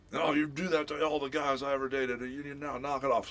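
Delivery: high-pitched imitation of rattled daughter; scolding daughter. Rattled daughter scolds father over boyfriends, high-pitched.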